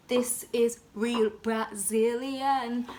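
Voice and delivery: very slow, stretched boast; slow proud declaration. Pretend. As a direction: savour every word. Showing off hair.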